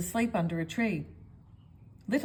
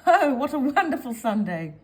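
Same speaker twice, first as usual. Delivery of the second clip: loud, higher gleeful call; pleased with her mischief, gleeful and loud; 4 semitones higher, 7 dB louder than usual. A narrator's reading. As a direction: crow with delight. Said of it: "giggled little Miss Naughty".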